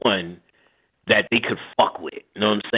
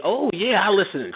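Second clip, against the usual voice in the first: put-on old lady voice; 9 semitones higher than usual. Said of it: "Old ladies be".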